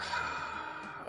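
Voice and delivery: long contented exhale, acted; relieved sigh. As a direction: let out a soft mock sigh of relief. Acting himself relieved at the movies.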